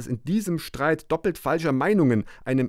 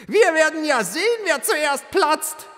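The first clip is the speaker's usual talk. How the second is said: taunting mob; 3 dB louder than usual. Acted. Mob taunting while boiling him.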